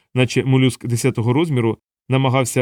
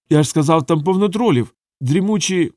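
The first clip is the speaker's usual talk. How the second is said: higher, rushing to the slip; mild blurted aside, rising; excited blurt; 5 semitones higher than usual. Acted. Colon blurts insult.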